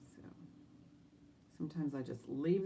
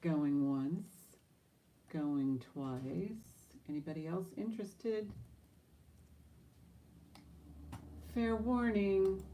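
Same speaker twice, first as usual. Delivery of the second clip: auctioneer. Acted. Auction call before sale.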